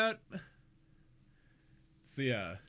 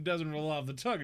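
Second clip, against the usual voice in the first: normal talking voice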